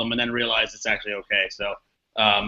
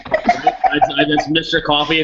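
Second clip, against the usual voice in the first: lightly attempted French accent, pitched up at the start; slower than usual. Shown as a demonstration. Contestant doing a game-show punishment, asking for coffee in an attempted French accent. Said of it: "in a French accent".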